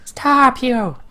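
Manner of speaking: very high, loud pleading creature; shrill monster. Acted. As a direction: squeal and beg for mercy. Second monster head begs, shrill.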